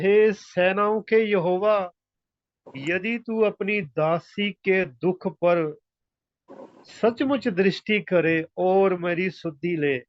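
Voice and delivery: slow, measured verse reading; scripture reading. A narrator's reading. Preacher reading Hannah's vow to the congregation, slow scripture reading. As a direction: read the verse out phrase by phrase, slowly.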